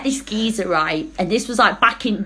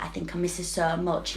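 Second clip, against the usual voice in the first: mock pining; 5 semitones lower, 12 dB quieter than usual. Mimicking the guy pining for his ex.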